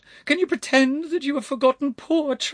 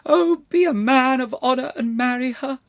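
high, loud imploring wail; 8 dB louder than usual. A narrator's reading. Elderly lady begging a lord to act honourably, wailing. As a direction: wail it out as a desperate plea. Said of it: "wailed the voice".

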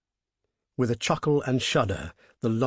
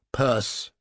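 curt demand. Acted. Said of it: "something very compelling in his voice".

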